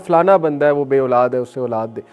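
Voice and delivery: demonstrated persistent prayer, building at the end; insistent pleading. Acted. Believer prays for childless relatives by name, persistent pleading. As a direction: keep pressing name after name. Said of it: "पीछे पड़ने से मुराद है यानी गिड़गिड़ाए अल्लाह के".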